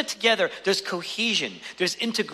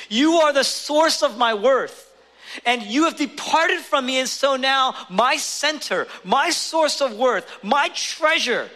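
anguished cry; 5 semitones higher than usual. Acted. Jesus's cry voiced from the cross.

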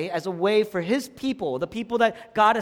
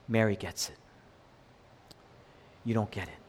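low, hushed, spaced-out words; gently moved; 11 semitones lower, 8 dB quieter, faster than usual. Retold or imitated. Jesus gently correcting Martha, hushed and moved. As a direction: tell it softly, deeply moved. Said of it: "he's moved by that".

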